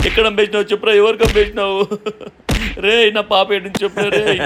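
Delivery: worried father's angry outburst; desperate demand. Acted. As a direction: press for answers, frantic with worry. Father demands where his child is.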